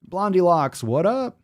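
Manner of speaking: high, squeaky hyped-up greeting; hype greeting. Acted. Greeting the stream crowd in a high goofy hype voice.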